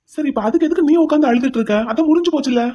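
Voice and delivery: exasperated. Acted. He is exasperated by her crying.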